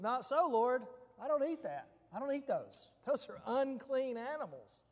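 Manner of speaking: imitating an earnest refusal; retold refusal. Peter's retold refusal of command.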